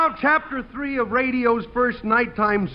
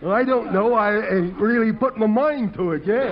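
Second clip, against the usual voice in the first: Clem the bumpkin; 3 semitones higher than usual. Acted. Clem the dim fireman talking to the audience, goofy and cheerful. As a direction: play a goofy rube pleased with himself.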